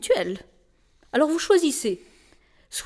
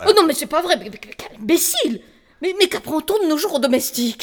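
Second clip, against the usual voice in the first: s'écrier, scandalisée; outrée; 3 semitones higher, 4 dB louder, faster than usual. Acted. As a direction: dame scandalisée qui s'emporte. Scandalized lady cries out. (indignation à voix forte)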